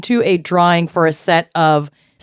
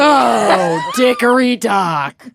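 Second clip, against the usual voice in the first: silly sing-song; slower than usual. Pretend.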